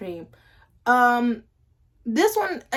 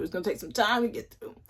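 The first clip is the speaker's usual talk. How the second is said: fake-crying, softer repeat; mock sob; 5 dB quieter than usual. Shown as a demonstration. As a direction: whimper it in mock tears.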